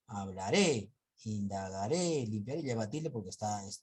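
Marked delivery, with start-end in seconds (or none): 0.1-2.3 hablaré and indagaré with weight on the final "ré"; stress on final syllable. Shown as a demonstration. Teacher listing examples, stressing each final "ré" in hablaré, indagaré. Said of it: "la mayor fuerza de voz".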